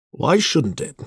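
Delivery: short, high-pitched challenge; rather short demand. A narrator's reading. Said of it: "Charles demanded rather shortly".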